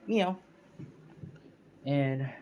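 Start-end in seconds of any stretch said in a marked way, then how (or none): 0.1-0.4 cat meow. Retold or imitated. Cat in story meows.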